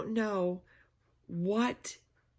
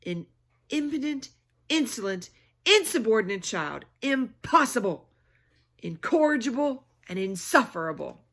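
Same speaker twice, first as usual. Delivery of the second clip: stern scolding; 3 semitones higher, 6 dB louder than usual. Acted. Babysitter scolds Lulu.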